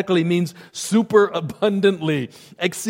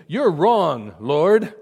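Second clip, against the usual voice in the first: boastful; 4 dB louder, much slower than usual. Retold or imitated. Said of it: "he rather boastfully was saying".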